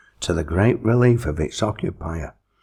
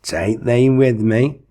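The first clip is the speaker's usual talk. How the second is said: quick interruption; 6 semitones higher, 5 dB louder, slower than usual. A narrator's reading. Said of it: "interrupted the satanic one quickly".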